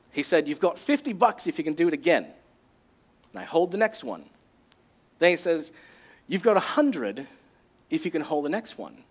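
lightly put-on South African accent. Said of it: "I'm gonna try to do this in a South African accent".

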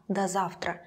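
"до завтра" softly, with до as "da"; soft open a in "до завтра". Shown as a demonstration. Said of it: "pronounced like да".

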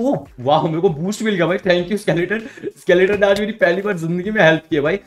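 loud happy surprise; thrilled by a lucky break; delighted. Real, not acted. Got a boost, delighted.

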